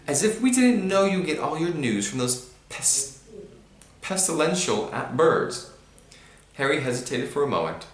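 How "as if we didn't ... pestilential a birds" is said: sneering uncle. A narrator's reading.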